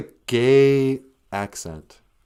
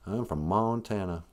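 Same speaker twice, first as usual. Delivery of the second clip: put-on southern redneck accent; 6 dB quieter than usual. Montanan introducing himself, southern redneck accent. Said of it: "you can have a southern redneck accent".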